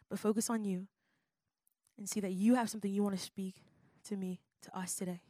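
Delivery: spoken prayer. Acted. Leads a prayer.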